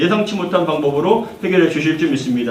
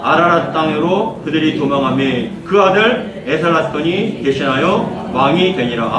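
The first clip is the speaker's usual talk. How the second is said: slow, measured Bible reading to the congregation; slow scripture reading; 3 semitones lower, slower than usual. Acted. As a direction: read the verse slowly and solemnly. Reads scripture aloud.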